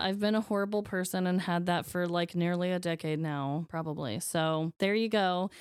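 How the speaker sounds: slightly wheezy, tired voice; a little wheezy and short of breath. Real, not acted. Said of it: "I'm sorry if I sound a little wheezy".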